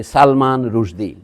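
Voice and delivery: সালমান রুশদি said slowly with long open a sounds, Bengali way; careful slow Bengali name; Bengali pronunciation. Shown as a demonstration. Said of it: "আমরা যখন বলি".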